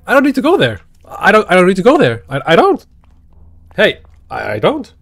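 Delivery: high, loud, fast panicked protest; a loud, high, rushed frightened no; panicked refusal. Real, not acted. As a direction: back away in a hurried panic. Panicked refusal while being chased.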